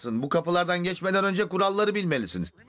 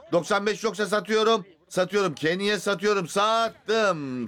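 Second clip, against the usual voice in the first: rapid bidding call, building to sold; auctioneer. Real, not acted. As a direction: chant the bids and close the sale. (müzayedeci tonuyla)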